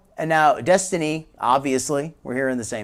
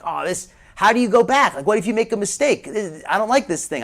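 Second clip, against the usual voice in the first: higher-pitched retold complaint; mock frustration; 4 semitones higher than usual. Commentator recalling childhood typewriter mistakes, mock frustrated. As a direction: replay a kid's exasperated grumble.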